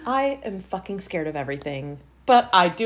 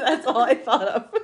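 giggling through the words; laughing; 5 semitones higher than usual. Real, not acted. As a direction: laugh out the line at your own pun. Laughing at own pun.

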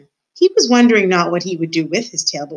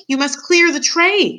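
high, slow emphatic order; insistent shout; 9 semitones higher, slower than usual. A narrator's reading. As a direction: shout it slowly for someone who didn't hear. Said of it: "shouted Cook".

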